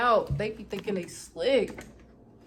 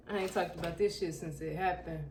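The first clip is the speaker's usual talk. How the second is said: softer, lower repeat of I ain't talked about this shit; quiet confession; 3 semitones lower, 5 dB quieter than usual. Real, not acted. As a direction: drop to a confiding hush. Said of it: "Real shit".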